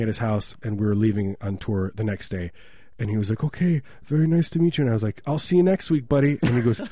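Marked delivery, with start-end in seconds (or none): 3.4-4.8 higher, put-on German accent; imitated German man. German host seeing off guests, mock German accent. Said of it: "this German guy". 5.3-6.4 jokey farewell. Retold or imitated. Own joking farewell, retold.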